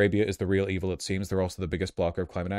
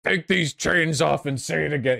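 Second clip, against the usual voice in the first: mock quote; 7 semitones higher than usual.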